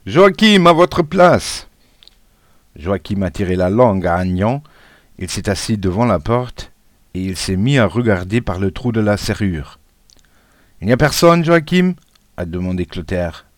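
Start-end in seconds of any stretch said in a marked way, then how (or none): 0.1-1.7 high, loud schoolboy shout, last words drawn out; shouted order. A narrator's reading. Pupil playing teacher orders classmate to his seat, shouting. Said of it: "sauf Agnan qui criait". 10.8-11.9 high, raised-voice question, rising at the end; calling question. A narrator's reading. Pupil asking the lookout at the door, calling high. Pupil calls to classmate keeping watch.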